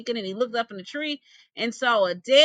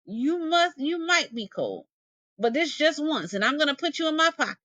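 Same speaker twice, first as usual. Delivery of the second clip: higher, giving in against his judgement; lightly voiced possum, relenting; 5 semitones higher than usual. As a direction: give in, reluctantly. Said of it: "said Bruh Possum".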